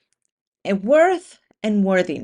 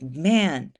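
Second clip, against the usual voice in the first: lower, softer, deflated grumble; dejected loser; 4 semitones lower, 3 dB quieter than usual. Pretend. Runner who came in last, mildly dejected. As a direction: sink into disappointment, voice dropping.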